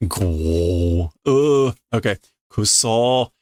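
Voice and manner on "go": low, drawn-out mock snore; imitated snore. Reader testing whether the effect is snoring, as a mock snore. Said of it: "Is that supposed to be snorting?".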